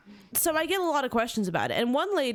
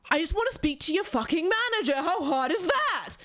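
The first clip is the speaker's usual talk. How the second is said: retold irate customer, raised pitch; mock angry yell; 5 semitones higher than usual. Caller demanding the manager, imitated angry yell. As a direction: act out exasperated yelling, drawing out the end. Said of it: "he's yelling at me over the phone".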